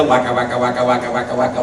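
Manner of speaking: monotone arcade waka noise; imitated game chomping. Recalling old video games, mimicked chomping noise. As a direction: repeat it evenly like a game sound effect. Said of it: "all I knew about video games".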